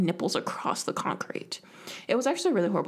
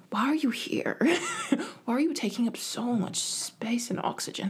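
hushed, mocking teacher asking why I'm there; a mock-disdainful teacher, breathed out; teacher's scornful look; 3 semitones higher than usual. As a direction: whisper it like a teacher sneering at a pest. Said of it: "and then look at me like".

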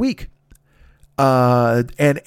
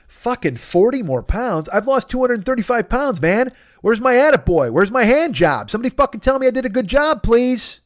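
higher, slowed-down incredulous complaint; exasperated outrage; 8 semitones higher than usual. Retold or imitated. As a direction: demand the praise you're owed. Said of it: "I went".

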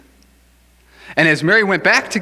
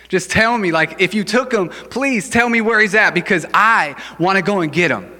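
higher-pitched acted pleading; emotional plea; 4 semitones higher than usual. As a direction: plead urgently, leaning hard on key words. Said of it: "when you're acting emotionally".

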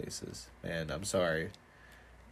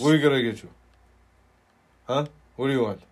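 raised mock-Greek counter voice; attempted Greek accent; 4 semitones higher, 6 dB louder, much faster than usual. Imitating the boss taking an order, attempted Greek accent. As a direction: badger the customer in a faked Greek accent. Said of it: "Was that a Greek accent".

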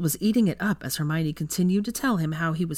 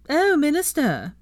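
higher, slow, swooning falsetto; teasing falsetto; 11 semitones higher, 5 dB louder, slower than usual. Acted. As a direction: simper at the minister in a fake high voice. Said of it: "Blaise took up the teasing".

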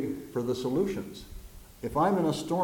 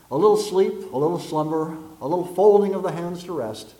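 emphatic scripture reading; 4 semitones higher, 7 dB louder than usual. Acted.

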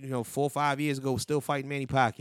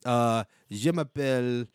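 slow put-on French; French accent; slower than usual. Host practising French for co-host, put-on French accent. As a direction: try out French phrases in a mock accent. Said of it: "I would actually have to talk French".

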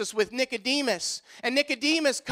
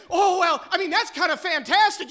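higher, louder mock doubt; lightly voiced skeptic; skeptical doubter; 5 semitones higher, 4 dB louder than usual. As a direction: shrug it off as fantastic. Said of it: "we say".

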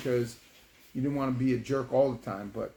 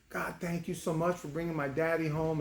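lightly imitated child's prayer, softer; slightly raised, gentle kid voice; praising daughter; 3 semitones higher, 4 dB quieter than usual. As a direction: give thanks like a little girl. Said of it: "she just started praising God and thanking".

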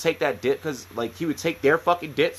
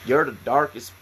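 put-on Florida swamp accent; 4 semitones lower than usual. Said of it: "Florida accent that I've ever heard".

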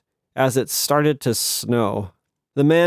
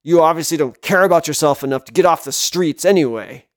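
fast, harsh man's voice; angry; 3 semitones higher, 3 dB louder, faster than usual. Acted. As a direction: spit it out angrily. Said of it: "Another angry voice joined the first".

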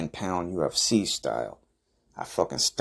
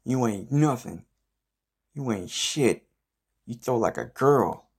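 higher, mocking trash talk; mascot heckling; 5 semitones higher than usual. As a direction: sneer it like a heckler from the sidelines. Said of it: "He was like".

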